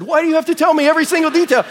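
high, loud, fast exasperated wail; mock crying parent. Worn-out parent begging chatty daughter to stop, mock tearful. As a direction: pretend to break down from too much detail. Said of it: "until you started crying and said".

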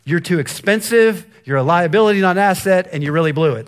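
mock harsh dad scolding. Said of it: "what I really wanted to say is".

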